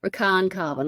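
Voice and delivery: "Rakan" as ruh-KAHN, "Karwan" in two syllables; corrected pronunciation. Shown as a demonstration. Host settling on the name, "Rakan" as ruh-KAHN. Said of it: "Let's say that".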